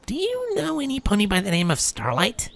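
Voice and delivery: high, soft secretive question; quiet voice. A narrator's reading. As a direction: lean in and ask softly. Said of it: "speaking in a quiet voice".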